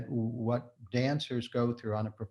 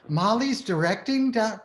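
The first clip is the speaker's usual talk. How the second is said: higher, louder mock gasp of disbelief; shocked question, pitched up; surprised disbelief; 10 semitones higher, 5 dB louder than usual. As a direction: replay your own shock at the news. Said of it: "I was like".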